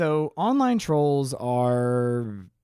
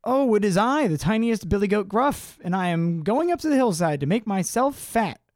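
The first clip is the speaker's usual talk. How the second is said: high, little storybook goat; small goat voice; 7 semitones higher than usual. A narrator's reading. Tiniest goat answering the troll, high small voice. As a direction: pipe up as the tiniest billy goat. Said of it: "with such a small voice".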